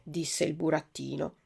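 ordinary delivery

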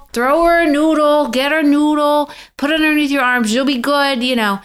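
imitated high-pitched pep talk; Vanessa urging. Best friend urging her into the water, high insistent coaxing. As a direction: coax a scared friend along, pitched well up. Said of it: "Vanessa looks at me and she goes".

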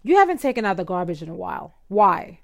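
fast, clipped demand ending in a pointed why; tense, commanding. Shown as a demonstration. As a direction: nag him like an accusation, quickly. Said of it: "what you wanna say is ... very tense, very commanding way".

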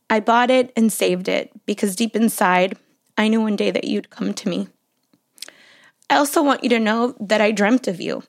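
measured love-letter reading with long pauses; composed, deliberate reading aloud. Real, not acted. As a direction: read a love letter to your daughter, phrase by phrase. Reads her love letter aloud.

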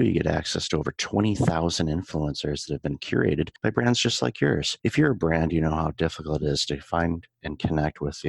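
smooth, continuous podcast ad read; sponsor read. Acted. Podcast host telling listeners about the show's sponsor, promotional ad read. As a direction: pitch the sponsor to listeners with lifts on key phrases.

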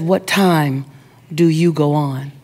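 low, composed woman in a luxury car; lightly voiced stately lady; regal woman. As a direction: ask it with regal poise. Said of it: "And she was regal".

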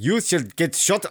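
put-on halting, slow stab at a Dutch accent; attempted Dutch accent. Podcaster trying out the speed skating threat, attempted Dutch accent. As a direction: have a go at a Dutch accent, badly. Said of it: "I can't do a Dutch accent".

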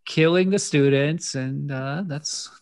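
lightly voiced fussy executive; high mock voice. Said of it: "Malcolm McDowell's like".

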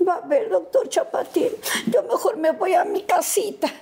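lightly voiced girl going home; Chilindrina voice. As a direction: play the sulky little girl who leaves. Chilindrina line in first sketch.

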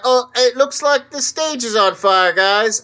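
light British accent, mock band frontman. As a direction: say it like a rock-band rocker, British accent. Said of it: "I'm doing a British accent".

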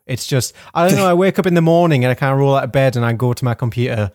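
ordinary talk

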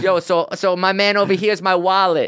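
high-pitched rapper voice; impression of a rapper. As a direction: introduce your sidekick as the star would. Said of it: "that's a good rapper impression".

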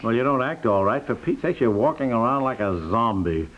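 usual speaking voice

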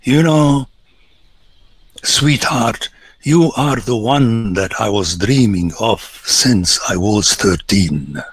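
mild parody of a sappy lover; lightly voiced syrupy sweet talk; a lightly hammed-up lover's cliché; mock romantic talk. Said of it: "talking like this".

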